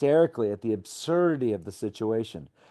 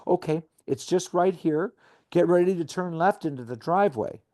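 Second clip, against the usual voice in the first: coaching; 4 semitones higher than usual. Retold or imitated. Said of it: "I'm still coaching the man".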